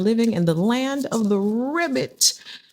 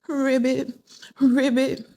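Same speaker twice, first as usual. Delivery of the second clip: frog croak; 4 semitones higher, slower than usual. Retold or imitated. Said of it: "but instead they said".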